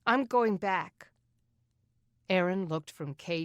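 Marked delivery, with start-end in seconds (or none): 0.0-1.1 firm, no debate. A narrator's reading. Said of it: "brooking no debate".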